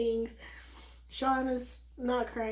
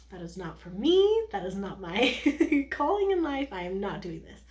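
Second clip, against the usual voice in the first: firm and slow, louder; adamant refusal; 5 dB louder than usual. Retold or imitated. Sean refusing to cut the cord, adamant and slow. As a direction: plant your feet and refuse, slowly. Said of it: "Sean was very adamant".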